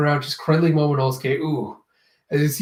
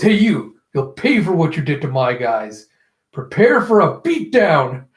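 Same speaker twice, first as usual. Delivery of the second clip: raised-voice cartoon henchman challenge; acted threat; 4 dB louder than usual. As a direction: call out a mock threat, punching the ends. Gifter threatens the heroes.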